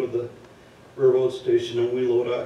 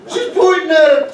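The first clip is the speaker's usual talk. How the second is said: shouting through laughter; laughing hard while telling; loud laughing; 14 semitones higher, 14 dB louder than usual. Real, not acted.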